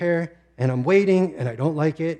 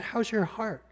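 gentle, higher question, slightly softer; tender question; 6 semitones higher, 6 dB quieter than usual. Retold or imitated. Doctor asking a weeping patient, tenderly. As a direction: ask it like a caring doctor. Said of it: "she was so tender and kind".

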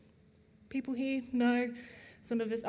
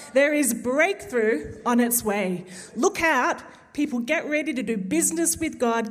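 emphatic, louder preacher's proclamation; preaching; 4 dB louder than usual. Acted. Preacher passing a word of breakthrough to the church, emphatic preaching. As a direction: proclaim it with building force, drawing out key words.

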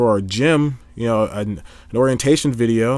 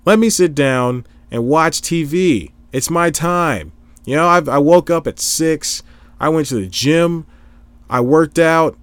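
raised, insistent protest; worked-up, higher-pitched justification; indignant self-defence; 4 semitones higher, 4 dB louder than usual. Acted. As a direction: plead your case to the nagging critics. Pleading his case to imagined critics.

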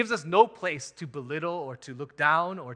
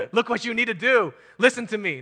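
higher, louder, laughing bossy nag; mock bossy wife; 7 semitones higher, 9 dB louder than usual. Wife telling her husband what he needs to do, laughing mock bossiness. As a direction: boss the husband around, laughing. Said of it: "go back to your husband and say".

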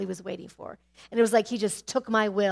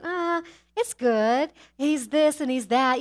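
mock self-justifying; 5 semitones higher, 4 dB louder, slower than usual. Retelling her own self-justifying thoughts.

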